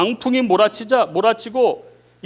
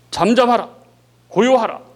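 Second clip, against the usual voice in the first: louder stern command to the storm; commanding rebuke; 2 semitones higher, 4 dB louder than usual. Acted. Jesus rebukes the stormy sea, louder commanding voice. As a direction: order the raging sea to be still, louder. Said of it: "명령하시니까".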